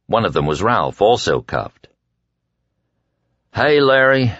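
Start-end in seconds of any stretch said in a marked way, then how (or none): 3.5-4.3 higher, sorrowful greeting. A narrator's reading. Cuffed friend greets a fellow prisoner, sorrowfully. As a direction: greet him with a touch of sorrow. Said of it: "Ralph said sorrowfully".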